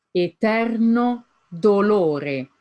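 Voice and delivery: "Eterno" stressed on "ter", "dolore" on "lo", a bit slow; stressed syllables. Shown as a demonstration. Teacher marking stresses for students, leaned on. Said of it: "Now look at the stressed syllables".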